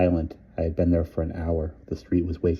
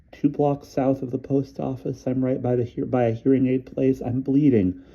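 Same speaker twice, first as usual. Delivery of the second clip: shaky directions; 8 semitones higher than usual. A narrator's reading. Polly giving directions in panic.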